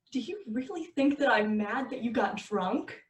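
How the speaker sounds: tight, controlled anger; angry voice. Acted. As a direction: hold the anger in. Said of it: "is this not your angry voice".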